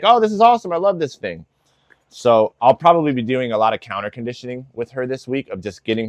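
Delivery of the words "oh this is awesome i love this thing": mock-thrilled dog voice, much higher and louder at the start; mock delight. Imagining the dog thrilled by the grinder, mock excited. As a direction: ham up the dog loving the nail grinder. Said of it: "But she's not like".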